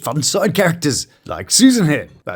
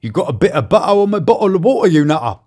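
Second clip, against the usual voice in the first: hammed-up British with dropped T's; cartoonish British slang delivery; British accent; 2 semitones higher than usual. Shown as a demonstration. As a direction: play up a glottal British accent. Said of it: "another delightfully British phrase for you".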